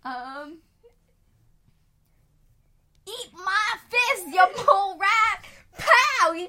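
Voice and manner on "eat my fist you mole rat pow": high, loud fighting yell; battle shout. Acted. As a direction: shout it like a hero landing a punch. Hero punches the mole rat.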